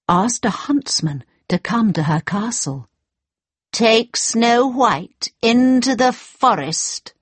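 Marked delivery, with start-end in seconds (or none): 3.7-7.1 evil queen. Acted. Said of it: "she said to him".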